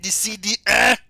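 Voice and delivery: over-the-top ad hype; hyped ad. Acted. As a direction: oversell it like a cheesy commercial. Ad climax, hyped.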